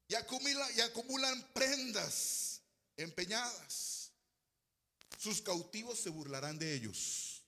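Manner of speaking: slow, emphatic proclamation; scripture reading. Real, not acted. Preacher reads the warning to the church, slow and emphatic. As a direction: stretch the key words, easing down at the end.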